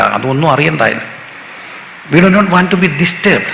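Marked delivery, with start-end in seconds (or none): 2.1-3.5 slow emphatic. Acted. Preacher's solemn English emphasis.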